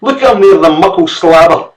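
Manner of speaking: high, loud Scots scolding; furious mother. Acted. Mother railing at the servant. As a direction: point him out in disgust.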